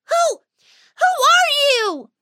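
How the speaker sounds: high, startled mouse asking who's there; alarmed, cross squeak; angry and afraid. Acted. Whiskers confronting the pixie, high startled squeak. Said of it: "angry and afraid".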